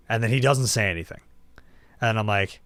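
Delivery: usual speaking voice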